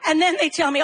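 ordinary talk, nothing marked

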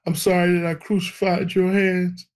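mock-tearful sorry to God; imitated tearful prayer. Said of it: "And I'm bawling crazy".

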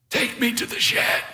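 high, thin pitch with little voice; lightly voiced old beekeeper giving an order; old man's order. A narrator's reading. Grandfatherly man sending helpers to the shed, commanding.

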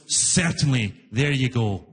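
low-pitched, lightly acted booth guy; booth guy obliging. Fare collector giving the rider change, low obliging voice. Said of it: "And he goes".

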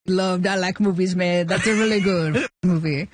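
lightly voiced comedian impersonation; Adam Sandler impression. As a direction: imitate the laid-back comedian on the phone. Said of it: "It's the real Adam Sandler voice?".

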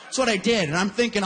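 normal talking voice

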